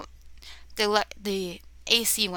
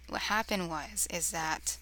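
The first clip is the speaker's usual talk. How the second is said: stumbling, stuttering start; 5 dB quieter, slower than usual. Real, not acted. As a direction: trip over the words. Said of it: "stuttering a little bit".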